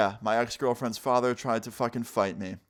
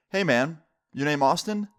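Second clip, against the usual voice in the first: lightly acted confrontational dad, pitched up; angry dad; 4 semitones higher than usual. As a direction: mildly confront him as an angry father. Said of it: "super angry look on his face".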